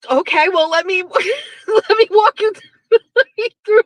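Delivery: can't get the quote out for laughing; giggling while imitating him; laughing through the quote. Quoting him, cracking up.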